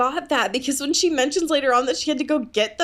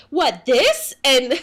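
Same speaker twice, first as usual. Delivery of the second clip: mock innocent; 3 semitones higher, 5 dB louder, slower than usual. Bella acting innocent, imitated.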